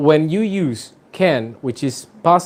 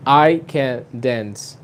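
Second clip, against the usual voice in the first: slow, "dance" stressed and falling; much slower than usual. Shown as a demonstration. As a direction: land the weight on "dance". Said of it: "el énfasis irá en la palabra que va después de can". (énfasis en "dance", lento)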